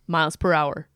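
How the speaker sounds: drawn-out quiz host reading; game show host. Acted. Reads quiz options like host.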